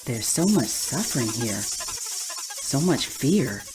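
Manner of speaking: low, slow and heavy with grief; drawn-out, pained empathy, pitched low; sorrowful. Acted. Sensing caged lab rats' suffering.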